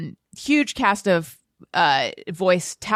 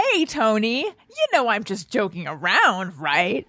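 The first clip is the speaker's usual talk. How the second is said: light, offhand and breezy; breezy casual tone; 3 semitones higher than usual. Retold or imitated. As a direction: toss it off casually. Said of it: "my tone was like".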